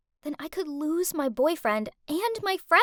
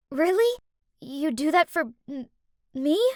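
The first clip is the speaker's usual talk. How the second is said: spluttering in surprise; 2 semitones higher than usual. Acted. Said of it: "I spluttered out".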